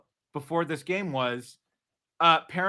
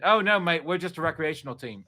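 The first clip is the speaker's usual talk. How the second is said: put-on Australian accent. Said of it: "full Australian accent".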